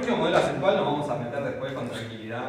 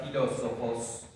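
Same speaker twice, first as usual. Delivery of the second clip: slow model word; 5 semitones lower, 5 dB quieter, slower than usual. Shown as a demonstration. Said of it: "si hacen esta declinación de la palabra".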